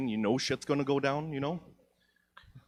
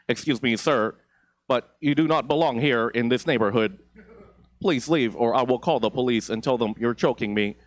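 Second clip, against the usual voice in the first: Karen voice; 6 dB louder than usual. Pretend. Karen robot confronting him.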